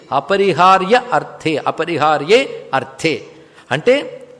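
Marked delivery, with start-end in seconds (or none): 0.1-3.2 అపరిహార్యే, then అర్థే, slowly with a break between; word-by-word split. Shown as a demonstration. Teacher splitting the compound for listeners, అపరిహార్యే and అర్థే slowly separated.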